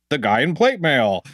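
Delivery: slow, muffled armoured voice; inside a helmet. Shown as a demonstration. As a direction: speak as if in plate mail. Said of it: "he's like".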